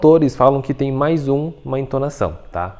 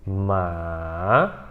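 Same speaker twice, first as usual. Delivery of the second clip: long "ma" dropping low then rising; soft, low dip and climb on "ma"; third tone, dipping; 6 semitones lower, 5 dB quieter than usual. Shown as a demonstration. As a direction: sink into "ma", then lift it. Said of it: "de novo".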